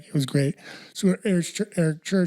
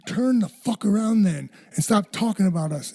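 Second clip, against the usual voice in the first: higher, slow, emphatic telling-off; retold angry wife; 5 semitones higher than usual. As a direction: lightly act out a wife's rebuke. Wife confronts a talkative woman.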